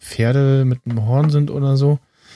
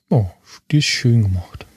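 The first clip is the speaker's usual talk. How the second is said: whispering. Real, not acted. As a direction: breathe it out in awe. Admiring app, whispered aside.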